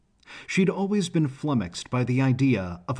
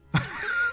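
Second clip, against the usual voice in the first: throaty laugh. A narrator's reading. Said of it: "It was a deep, throaty laugh".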